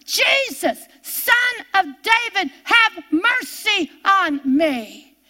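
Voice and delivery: pleading call starting high and falling to a slow close; crying out like blind Bartimaeus. Retold or imitated. Preacher reliving her prayer over housework, pleading cry. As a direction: lift Jesus, then ease down on have mercy on me. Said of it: "I turned into blind Bartimaeus".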